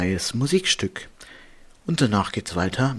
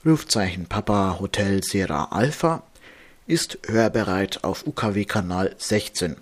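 steady, formal bulletin read; marine radio. Acted. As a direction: read out the nautical warnings evenly, like a radio operator. Reads out nautical warning bulletin.

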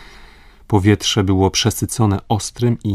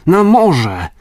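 much higher and louder urgent cry; shouted call; 9 semitones higher, 6 dB louder than usual. Acted. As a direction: call the rowers out to sea. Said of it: "zawołał".

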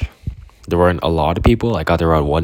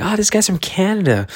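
high mock announcing; 14 semitones higher than usual. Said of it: "And they were like".

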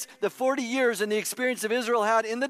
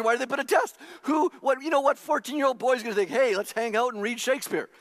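raised preaching voice, near shouting; loud outburst; 2 semitones higher than usual. Real, not acted. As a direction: belt it out at the crowd. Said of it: "That's my inside voice".

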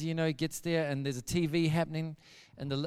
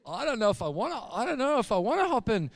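reluctant hesitation; 5 semitones higher than usual. Retold or imitated. Friend balking at hopping into the wardrobe, reluctant. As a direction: hem and haw with stretched words.

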